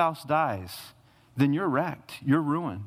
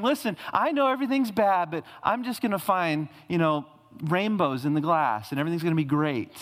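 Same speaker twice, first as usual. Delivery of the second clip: mock relentless optimist; 3 semitones higher, faster than usual. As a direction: parody a naive optimist who brushes off the bad. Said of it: "the relentless optimist".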